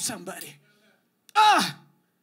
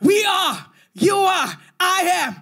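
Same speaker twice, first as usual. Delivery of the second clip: building preaching climax. Acted. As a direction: build to the peak. Rising climax.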